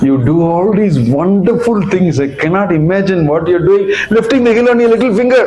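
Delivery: rising into high astonishment; amazed praise. Acted. Villagers marvel at Krishna.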